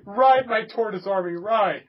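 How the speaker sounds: slow, loud rallying call; rally the tortoise troops like a general; hammed-up commander; mock battle cry.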